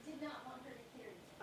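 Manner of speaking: hushed, unvoiced warning; whispering. Real, not acted. Hiding words from child.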